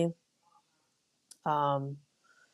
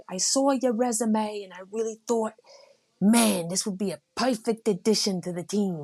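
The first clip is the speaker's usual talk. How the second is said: lightly voiced, drawn-out New York coach; coach's drawn-out talk; 6 semitones higher than usual. Imitating the head coach's slow, drawn-out invite. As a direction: stretch the words like the coach on the phone. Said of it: "that's how he talks. Like, everything's drawn out".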